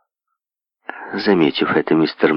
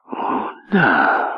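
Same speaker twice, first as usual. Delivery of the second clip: meaningful drawl. Acted. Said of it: "многозначительно протянул Мэдж".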